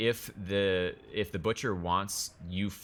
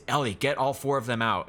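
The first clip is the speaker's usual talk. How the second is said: loud, raised-pitch command; yelling an order; 6 semitones higher, 6 dB louder than usual. Acted. Game master as Barnaby yelling at the group to get out. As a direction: shout it urgently at the group. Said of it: "he's yelling at the group".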